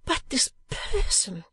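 high, slow worried protest; urging. A narrator's reading. Sister urging her brother about his employer, high protest. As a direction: press your brother in a high voice. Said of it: "urged Kate".

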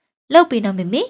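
put-on loud childlike begging; pleading child. Daughter begs her mother for a birthday party, loud pleading child. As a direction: beg mother for it, loud and eager.

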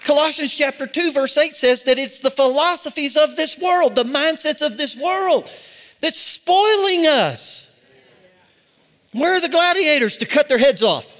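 forceful sermon with punched key words; fired-up preaching. Real, not acted. Preacher rallying the church against false philosophies, fired-up preaching. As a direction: preach it like a battle charge.

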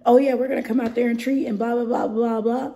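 loud, high, rushed spiel; mock customer pitch. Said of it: "What am I supposed to tell them?".

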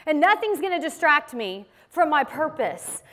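slowly, every word weighed; slow firm reminder. Retold or imitated. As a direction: say it slowly, calm and resolute. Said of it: "he's reminding his mother".

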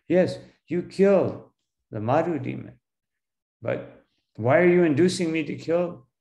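emphatic, mildly protesting question; challenging. Acted. Arjuna asks why Krishna induces him to kill, challenging. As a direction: lightly act out objecting to a friend. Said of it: "he's challenging Krishna".

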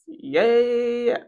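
squeaky little yay; a tiny mocking cheer. Gleeful mock cheer at the victims.

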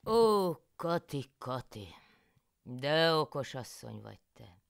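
loud, high, slow cry of praise; loud, high delighted husband; husband János exclaiming. A narrator's reading. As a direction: draw out Kati in delighted exclaim. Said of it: "kiáltott fel János".

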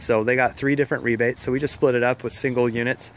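slightly winded, catching breath. Real, not acted. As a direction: talk while still a bit breathless. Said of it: "Sorry, I'm a little out of breath".

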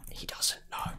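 hushed unvoiced whisper. Real, not acted. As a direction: whisper it to yourself. Whispering to himself mid-fight.

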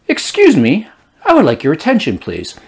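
mock office politeness; corporate polite. Shown as a demonstration. Translating the yell into corporate English, mock polite. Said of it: "translate into corporate English that many of you speak".

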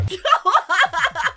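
loud open laugh; hearty amused cackle; burst of laughter. Real, not acted. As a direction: break up laughing. Laughs at the scene.

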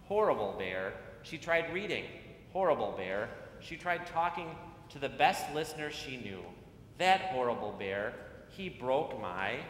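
put-on reading to children. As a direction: read it like storytime on the church steps. Reads picture book to children.

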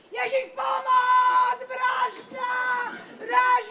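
crying murder. Acted. Screaming murder for help.

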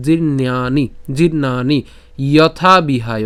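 জীর্ণানি broken into clear syllables; careful pronunciation. Shown as a demonstration. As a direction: sound out জীর্ণানি, then যথা বিহায়. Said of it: "উচ্চারণটি কী করতেছি". (জীর্ণানি যথা বিহায় ভেঙে স্পষ্ট উচ্চারণে)

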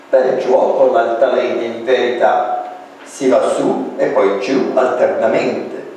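put-on Italian children's rhyme read as verse; poem recitation. Shown as a demonstration. Reads Piumini's Italian poem.

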